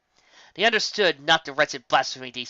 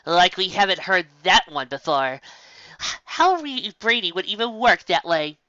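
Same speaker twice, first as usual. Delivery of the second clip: dull exasperation; 5 semitones higher, 4 dB louder than usual. Acted. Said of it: "with dull exasperation".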